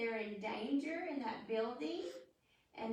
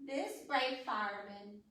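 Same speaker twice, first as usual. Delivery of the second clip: reading a rhyme. Acted.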